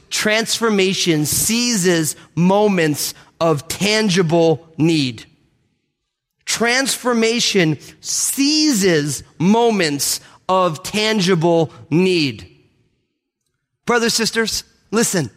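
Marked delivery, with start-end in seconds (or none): 0.1-5.3 slow, weighty statement; slow emphatic. Shown as a demonstration. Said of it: "repeated key phrase". 6.4-12.5 very slow emphatic. Shown as a demonstration. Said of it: "repeated key phrase".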